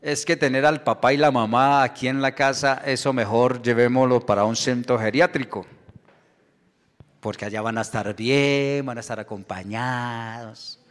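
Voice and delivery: mock soothing excuse that tails away; dismissive children. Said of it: "algunos hijos dijeron".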